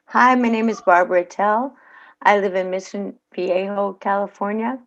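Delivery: ad read. Shown as a demonstration. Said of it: "here we go".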